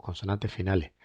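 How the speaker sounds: CONSONANTES FINALES with final s only lightly breathed; "consonantes finales" with Andalusian aspirated endings; Andalusian dropped finals. Shown as a demonstration. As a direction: let the last s of "finales" fall away. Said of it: "dejamos caer prácticamente todas las consonantes finales".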